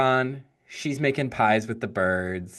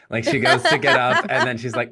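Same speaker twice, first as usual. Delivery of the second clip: laughing; 2 semitones higher, 5 dB louder, faster than usual. Real, not acted. Laughing while retelling.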